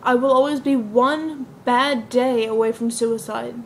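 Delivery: understated confession of despair, with deliberate pauses; lightly acted, measured telling of a painful history; earnest dramatic monologue. Nell confides about living with depression, understated dramatic monologue. Performs Nell's monologue from a play.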